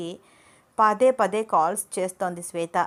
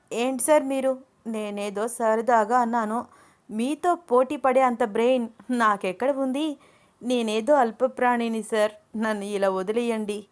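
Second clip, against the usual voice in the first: The speaker's voice; 3 semitones higher than usual. Acted.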